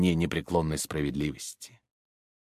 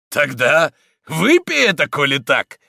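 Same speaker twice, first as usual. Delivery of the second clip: higher, louder dare; taunting challenge; 5 semitones higher, 5 dB louder than usual. A narrator's reading. Stonecutter daring the priest, taunting challenge. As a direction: dare him to drink it. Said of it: "воскликнул камнелом".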